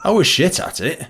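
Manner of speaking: laughing at himself. Real, not acted. Man joking about his door work, laughing. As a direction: chuckle through the self-mockery.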